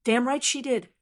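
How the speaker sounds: short, snapped retort; snapping. Acted. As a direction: snap it back at her. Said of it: "he snapped".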